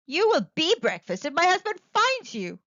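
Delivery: put-on half-whispered worry for the boy; giant's wife warning. A narrator's reading. Giant's wife warns Jack, lightly voiced. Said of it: "she told Jack".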